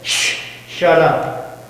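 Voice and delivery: slow, unvoiced shush; Jesus stilling the waves with a hush; hushing the storm. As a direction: whisper it down like calming a storm. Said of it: "he said this".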